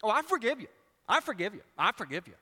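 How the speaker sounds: mock insincere forgiveness; grudging forgiveness. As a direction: repeat I forgive you, not meaning it. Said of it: "we do that with forgiveness".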